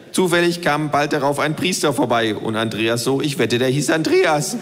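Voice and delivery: the know-it-all kangaroo lecturing. Acted. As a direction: voice the kangaroo, lightly. Kangaroo's long Jesus parable.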